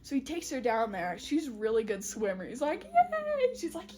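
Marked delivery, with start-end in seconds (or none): 2.9-3.5 high, loud squeal of delight; hammed-up celebration; mock cheer. Healer cheering her swimming.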